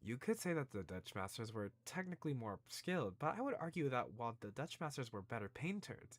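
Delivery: put-on shaky grasp of a British accent, opening word drawn up; attempted British accent. Game character debating Matisse and Dutch masters in attempted British accent. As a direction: have a go at a British art lover's voice. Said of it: "how do you do a British voice again".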